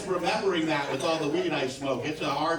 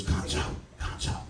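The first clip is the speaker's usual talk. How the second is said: breathy whisper of his name; 5 dB quieter than usual. Retold or imitated. Hooker whispering his name in his ear. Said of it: "She whispered in my ear".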